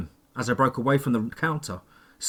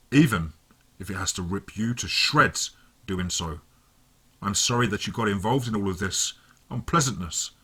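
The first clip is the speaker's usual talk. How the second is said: lightly voiced villain, calm and menacing; a hint of a smug villain explaining; cold villain. A narrator's reading.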